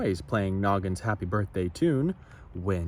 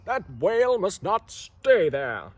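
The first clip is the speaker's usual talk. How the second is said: higher, louder harbor master call; shouted; 7 semitones higher, 4 dB louder than usual. Acted. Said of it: "he shouted".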